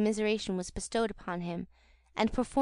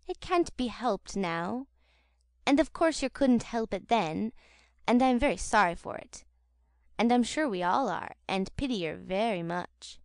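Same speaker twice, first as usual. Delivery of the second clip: jeering mock pity. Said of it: "speaking in a jeering tone of affected pity".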